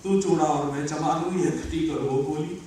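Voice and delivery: low, subdued poem line; understated verse recitation. Acted. First, low-key take of verse.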